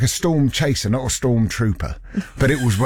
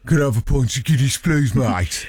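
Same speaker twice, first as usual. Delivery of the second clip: mock Black Country. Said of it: "going into their local going".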